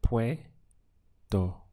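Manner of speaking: "puedo" stretched out slowly, syllable by syllable; slow modelled puedo. Shown as a demonstration. Teacher slowly models "puedo" for the student. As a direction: draw out "puedo" slowly so the student hears each sound. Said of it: "We have".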